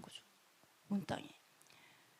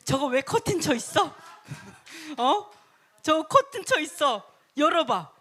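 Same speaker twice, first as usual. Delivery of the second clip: raised, insistent questioning; demanding king; 2 semitones higher than usual. Acted. King to attendants about the curtain, demanding. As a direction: voice a king who wants it opened now.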